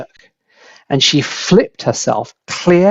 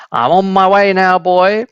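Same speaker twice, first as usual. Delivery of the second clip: crone calling down; 6 semitones higher than usual. A narrator's reading. Grandma calling down to George from above, high crone call. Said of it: "she cried down to George".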